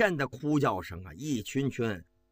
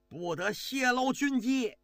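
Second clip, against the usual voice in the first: higher, cutting command; sharp warning shout; 9 semitones higher than usual. A narrator's reading. General warning the officer to keep secrets, sharp shout. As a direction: stop him from speaking out. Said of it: "高欢冲着这个狱警就喊".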